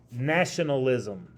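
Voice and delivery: Nationalism said slowly and deliberately as a key term; slow emphasis. Shown as a demonstration. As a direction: spell out Nationalism slowly for the class to note. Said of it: "nationalism would be a vocabulary word".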